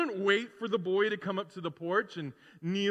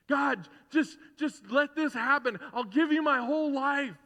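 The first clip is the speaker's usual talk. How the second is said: higher, louder pleading to God; mock desperate prayer; 7 semitones higher, 4 dB louder than usual. Preacher imitating a movie sinner pleading with God, higher and louder.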